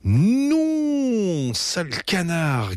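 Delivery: very high, long-held protest; yelping child. A narrator's reading. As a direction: squeal it out in indignation. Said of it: "glapit Betty". (glapissement aigu de petite fille)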